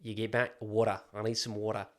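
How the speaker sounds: attempted Australian, "water" as the anchor; Australian accent. Shown as a demonstration. Demonstrating how to recover when slipping, Australian accent. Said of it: "get into the Australian is water".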